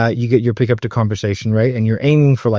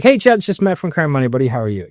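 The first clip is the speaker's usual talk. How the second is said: happy, confident; 2 semitones higher, faster than usual. Shown as a demonstration. Sales coach demonstrating a cold call to a rep, happy and confident. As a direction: sound glad to be calling, easing down at the end. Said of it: "sound like you enjoy your job".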